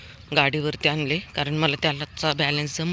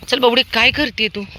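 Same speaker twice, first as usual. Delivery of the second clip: high, louder chat with the dog; pet talk; 7 semitones higher, 8 dB louder than usual. Real, not acted. Owner asks her little dog what she is doing, high pet talk. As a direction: tease the little dog fondly.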